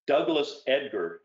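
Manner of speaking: put-on light northern English accent, slow, Douglas stressed; a touch of northern English, lingering on Douglas. A narrator's reading. Grieving friend names the dead man, light northern English accent. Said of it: "he said in a decidedly British accent".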